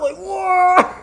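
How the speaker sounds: mock wow. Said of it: "she'd be like a stunt woman".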